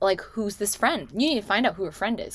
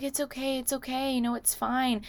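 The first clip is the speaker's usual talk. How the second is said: soothing coaxing; 5 semitones higher, 5 dB quieter than usual. Retold or imitated. Guy coaxing the drunk woman, softly soothing. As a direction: imitate soft, higher-pitched reassurance.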